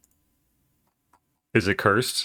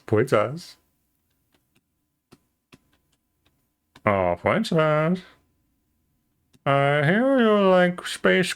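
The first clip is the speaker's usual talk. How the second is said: high, slow and sweet; princess voice; 4 semitones higher, much slower than usual. Acted. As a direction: coo it like a cartoon princess. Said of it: "it could be fun to do Princess voice".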